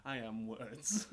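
slow, self-important poetic declaration; mock-solemn pronouncement. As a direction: declare it slowly like a poet. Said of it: "gonna go real poetic".

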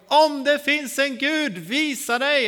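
slow, high, loud cry to the sky; acted full-voiced call into the forest; loud shout. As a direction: shout it out to God, stretching the words. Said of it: "jag ropade högt".

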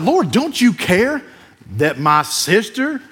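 a touch of sass, drawn out slowly; sassy complaint. Shown as a demonstration. Pastor voices Martha's complaint to Jesus, lightly sassy. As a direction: give Jesus some attitude, lightly. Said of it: "I bet she said it with some sass".

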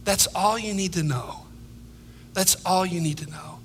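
soft, sincere comfort spoken low; soft reassurance. Real, not acted. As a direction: let it settle gently, almost to yourself. Repeated quiet reassurance.

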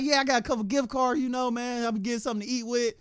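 lightly voiced thief excuse; thief explaining. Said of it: "He's like".

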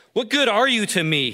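a businessman turning on a friend, heated. Acted. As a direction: snap at your friend. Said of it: "He was getting heated".

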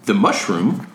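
lightly voiced calm, smart presenter; a hint of a calm visionary; Steve Jobs voice. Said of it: "that was excellent".

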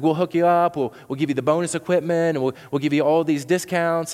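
a pushy sales rep keen to sign you; mock salesman pitch luring a new customer; eager cable salesman.

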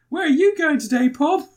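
put-on high, bright kids' TV host; hammed-up kids' show voice; mock presenter voice. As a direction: chirp it like a children's presenter.

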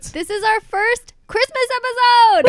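high, slow excited shout; shouted Christmas cheer, stretched out; excited announcement. Real, not acted. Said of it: "announcing excitedly".

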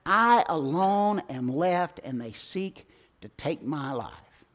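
slow, sinking complaint; weary lament. Acted. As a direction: drag it out, self-pitying. Elijah complains, despairing.

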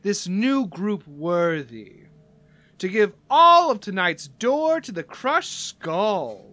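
slow, drawn-out emcee announcement; lightly hammed-up build to the big news; Barry the Flirt. Barry announces the door money to the crowd, stretched-out showman. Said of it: "And he says".

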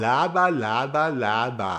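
dismissive, falling away each time; grumbling. Acted. Man sulkily grumbling at his mirror image, dismissive. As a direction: brush it off sulkily. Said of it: "Hab ich das Spiegelbild angemault".

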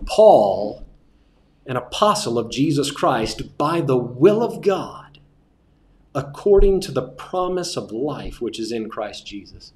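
slow scripture reading with careful emphasis; slow, emphasized reading. Shown as a demonstration. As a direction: read slowly, leaning on key words. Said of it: "do not rush and emphasize appropriately".

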